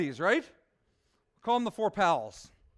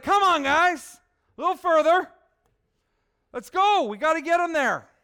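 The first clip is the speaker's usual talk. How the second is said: put-on higher, louder Southern good-ol'-boy urging his pals on; Southern Bubba voice, much higher and louder, rallying his buddies; Bubba's southern accent; 9 semitones higher, 10 dB louder than usual. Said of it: "Picture my southern accent right now".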